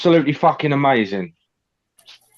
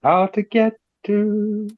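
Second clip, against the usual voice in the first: slow, high put-on Scottish accent; 5 semitones higher, slower than usual. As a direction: ask for directions in a Scottish accent. Player attempting Scottish accent.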